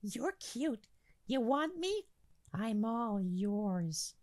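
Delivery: high, soft purr; seductive whisper. Acted. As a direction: breathe it into his ear. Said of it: "whispers in his ear".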